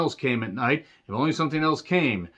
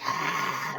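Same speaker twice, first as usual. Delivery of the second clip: imitated hiss; 4 semitones higher, 6 dB quieter than usual. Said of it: "one guy just does this and does".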